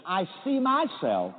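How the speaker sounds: slow, deliberate affirmation for the congregation to repeat; affirmation lead. Shown as a demonstration. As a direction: say it slowly so they can echo it. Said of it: "let's repeat this affirmation".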